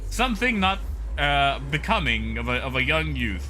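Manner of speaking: mock-prim Midwestern disapproval; pearl-clutching Midwestern accent. Prude disapproving of boy band dancing, in a mock Midwestern accent. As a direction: pronounce judgment like a hammed-up Midwestern prude. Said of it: "someone who had clutched their pearls".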